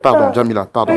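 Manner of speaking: loud, repeated frantic pleas; urgent pleading. Real, not acted. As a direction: plead loudly over someone's outburst. Host pleading with distraught, screaming guest.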